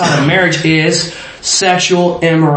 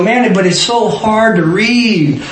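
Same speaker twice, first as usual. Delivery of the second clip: mock whine, slow and higher; higher, drawn-out mock moaning; imitated complaint; 4 semitones higher, slower than usual. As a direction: drag it out like a grumbling reader. Acts out readers complaining.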